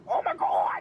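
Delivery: unvoiced loud gasp; breathless exclamation. Real, not acted. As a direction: gasp it out in disbelief. Laughing at his flub.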